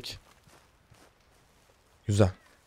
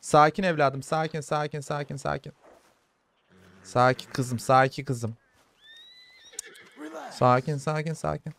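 calming murmur that fades softer; soothing an animal; 3 dB quieter, slower than usual. Real, not acted. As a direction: settle a nervous horse, getting quieter with each repeat. Soothing a wild horse while taming.

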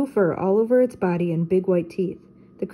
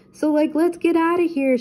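scared Shaggy; 9 semitones higher, 3 dB louder than usual. Acted. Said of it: "Shaggy said".

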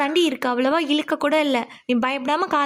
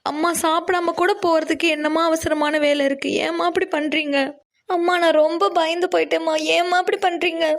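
tearful. Acted. Daughter tells mother how scared she was, tearful. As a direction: scold her lovingly through tears. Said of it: "நீ ஏன் இப்படி அழுகலாமா?".

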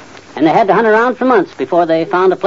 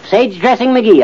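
proud, higher-pitched self-introduction; boastful nickname; 6 semitones higher, slower than usual. Acted. Husband boasting of his old nickname, proudly announcing it. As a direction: announce your old title with pride.

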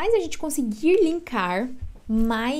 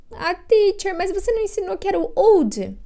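high questioning student voice; curious student; 8 semitones higher, 4 dB louder than usual. Retold or imitated. Student asking teacher Ana about old, in a high puzzled voice. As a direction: raise the pitch like a puzzled pupil. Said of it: "student asking the teacher".

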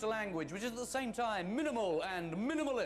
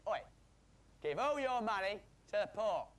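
blokey Cockney command; 4 semitones higher, 3 dB louder than usual. Retold or imitated. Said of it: "He was a bloke, and he went".

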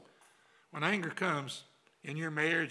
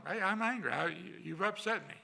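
naming anger; 3 semitones higher than usual. Shown as a demonstration. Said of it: "tell them".

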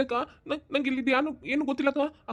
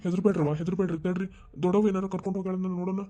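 gentle reassurance. Acted. Elder tells family not to fear.

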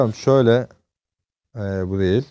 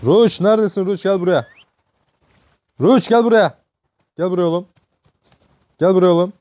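calling out; 5 semitones higher than usual. Real, not acted. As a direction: call the horse across the field. Calling his horse in game. (atı yüksek sesle çağırarak)

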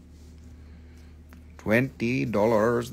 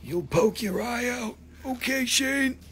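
silly high voice; 10 semitones higher, 5 dB quieter than usual. Pretend. High put-on voice to Rusty.

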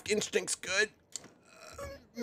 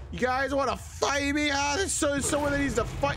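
mock challenge; 4 semitones higher than usual. Challenging enemies with new axe.

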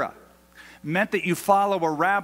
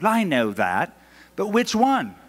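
put-on British accent; 3 semitones higher than usual. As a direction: imitate a British shop guy pressing for detail. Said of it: "like we love British accents".

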